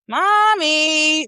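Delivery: put-on high, sing-song little-girl mommy; imitating a child calling mommy. Mom retelling her daughter calling her, high and sing-song. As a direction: call out like a playful toddler. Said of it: "I love how she be like".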